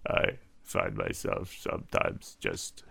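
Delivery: lightly voiced toady buttering up the boss; fawning aide. Sycophant continues flattering.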